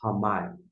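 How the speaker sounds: ramai said clearly as "ha-MAI"; pronouncing ramai. Shown as a demonstration. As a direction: say ramai with a light H for the R. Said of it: "Essa pronúncia".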